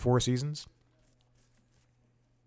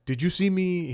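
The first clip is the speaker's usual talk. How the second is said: put-on a light Italian accent, higher; 8 semitones higher, 4 dB louder than usual. Host quoting the Italian guy at the pool, light Italian accent. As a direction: lightly imitate an Italian stranger. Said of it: "He has an accent. I think it might be Italian".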